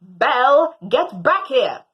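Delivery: loud call for the dog; shouting master. Retold or imitated. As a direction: shout her back. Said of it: "shouting at the top of their lungs".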